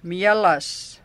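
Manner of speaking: put-on "Mielas", cute baby-talk form with l and final s. Shown as a demonstration. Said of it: "we change the sh sound to s".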